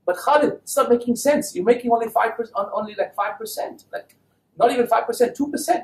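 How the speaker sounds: high-pitched protest, rising further at the end; incredulous objection. Retold or imitated. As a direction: act out disbelief at a puny profit. Acts out objecting to Khalid.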